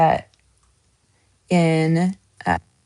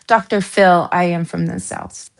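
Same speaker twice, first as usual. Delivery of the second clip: Southern accent slip. Real, not acted. Telling viewers about Doctor Phil, Southern accent slipping out. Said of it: "My accent flipped a little bit right there".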